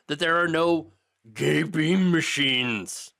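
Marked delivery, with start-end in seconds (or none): 1.3-3.1 very slow, drawn-out words; incredulous emphasis. Real, not acted. Host debunking the scanner claim, slow and emphatic. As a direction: spell it out slowly, word by word. Debunking, spelling out the absurd phrase.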